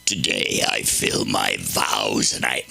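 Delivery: low, slow Southern woman; mock Southern drawl. Comic reading Proverbs in a mock Southern drawl. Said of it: "oh, she probably didn't talk like that".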